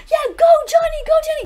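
teacher mocking parents yelling at their kids' hockey. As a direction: cheer like a parent at a kids' game. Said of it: "you parents are all there".

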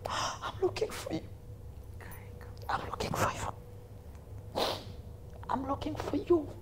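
single someone out in a hushed voice; intense, soft retold pronouncement; imitating woman preacher. Acting preacher singling out the teller.

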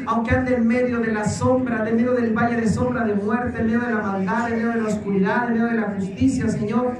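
fervent led prayer with rising pleas; earnest preacher's prayer over the people; leading prayer. Acted. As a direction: pray aloud for the congregation, pressing each petition. Leads congregation in prayer.

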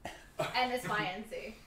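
spelled out slowly. Shown as a demonstration. Spelling the band name slowly.

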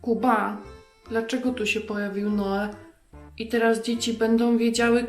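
ordinary talk, nothing marked

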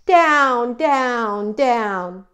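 long falling "down, down, down"; descending DOWN. A narrator's reading. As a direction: step "down, down, down" down the scale. Narrating the bird's long fall.

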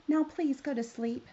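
storybook princess begging. Acted. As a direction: plead with him to sleep. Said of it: "she begged".

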